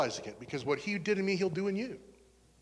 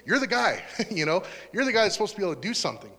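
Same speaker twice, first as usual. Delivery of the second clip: higher, exasperated disbelief with a laugh; retold incredulity; 4 semitones higher, 4 dB louder, faster than usual.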